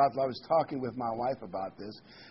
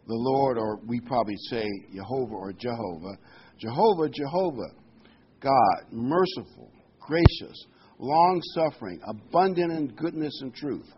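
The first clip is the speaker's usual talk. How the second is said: each name of God called out louder, word by word; emphatic proclamation; 2 semitones lower, 5 dB louder than usual. Shown as a demonstration. Preacher to congregation, reading Exodus with booming emphasis. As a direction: proclaim "Jehovah" and "gracious" like a herald to the hall. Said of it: "he emphasized certain words".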